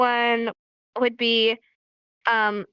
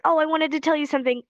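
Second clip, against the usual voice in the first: eager; 4 semitones higher, faster than usual. Acted. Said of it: "you're like".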